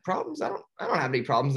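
high squeak, then a very fast nervous denial; defensive denial. Retold or imitated. Marlin brushing off the sharks, flustered denial. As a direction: blurt it out too fast to be believed. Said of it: "He's like".

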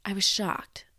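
hushed, whispered I was shocked. Retold or imitated. Echoing her own shock about the teacher, whispered. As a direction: drop to a stunned whisper.

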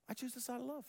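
quiet lifted repeat of love. Shown as a demonstration.

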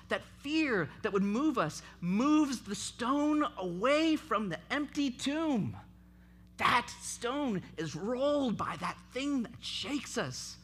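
loud, driving sermon delivery; fervent pulpit preaching, rising loud; full-force preaching. Acted.

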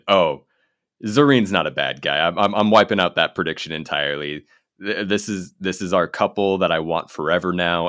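excited. Retold or imitated. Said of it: "I kinda went".

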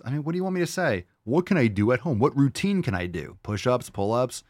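normal talking voice

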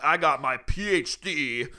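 badly faked Russian accent; fake Russian accent. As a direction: attempt a grumpy-sounding Russian accent. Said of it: "what's Russian?".

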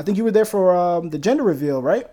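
choppy audio breaking up; cutting out. Real, not acted. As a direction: signal dropping in and out. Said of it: "You're, you're cutting out".

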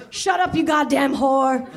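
slow, barked command; rough shout. Acted. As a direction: bark it down at her. Stu shouting during the act.

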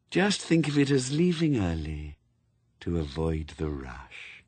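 hollow, dropping voice of Death, low at the end; Death, calm and cold. Acted. Death speaks.

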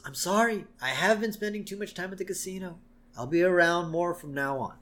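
lightly voiced contrite wife; Marge. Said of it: "And Marge says".

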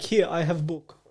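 lightly put-on Russian accent; a hint of mock-Russian, blunt and simple. Prophet presenting the book to Trump, light Russian accent. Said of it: "he's got a Russian accent".

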